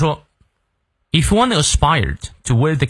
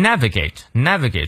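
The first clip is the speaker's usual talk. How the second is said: "navigate" with its first syllable punched; stressed syllable shown. Shown as a demonstration. Teacher showing learners word stress, NAV-igate hit first. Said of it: "注意它的重音".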